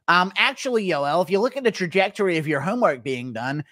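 lightly voiced know-it-all; a hint of schoolroom pedant; Ryan Hall. Nerd correcting the school bully, mildly pedantic impression. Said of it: "Impression of Yoel Romero shoving Ryan Hall into a school locker".

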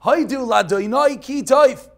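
slow, loud, drawn-out praise of God; solemn proclamation. Retold or imitated. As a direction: proclaim it slowly like a great rabbi. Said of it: "this is what the Chofetz Chaim did".

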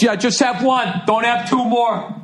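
high, slow snide dad; snide dad impression. Husband quipping to the comic at a show, snide and high. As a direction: toss off the advice with a smirk. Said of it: "the guy goes".

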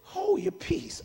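high, slow command; slow, high-voiced rebuke; drawn-out rebuke. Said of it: "He said".

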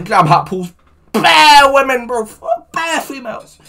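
high, loud put-on bro voice; Broadman way. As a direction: ham it up like a lad. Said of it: "I'll say it in the Broadman way".

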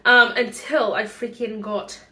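breathless mid-sentence; talking short of breath. Real, not acted. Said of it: "why am I out of breath?".

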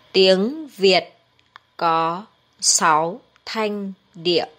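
Tiếng Việt có sáu thanh điệu spoken slowly, with a pause after Tiếng Việt; slow model sentence. Shown as a demonstration. Teacher models the sentence slowly for learners, slow and deliberate. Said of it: "Bây giờ, hãy cùng luyện tập".

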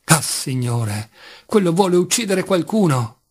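desperate cry. Acted. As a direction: cry out in despair. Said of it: "gridò Fenia".

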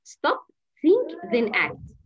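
slow classroom chant of the steps; slow, deliberate teaching. Shown as a demonstration. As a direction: spell out the three steps slowly for kids. Teaching a kids' anger technique.

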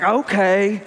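grudging okay with attitude. Retold or imitated. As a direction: give in, but with some attitude. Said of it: "you know, attitude".

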